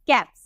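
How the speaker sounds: "कैप्स" ending in an unvoiced S. Shown as a demonstration. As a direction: say "कैप्स" with a crisp final S, not Z. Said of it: "इसे हम सौ में pronounce करते हैं".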